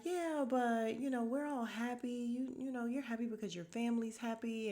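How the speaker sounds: lightly acted, high coaxing; imitated reassuring wife. Voices wife reassuring her husband.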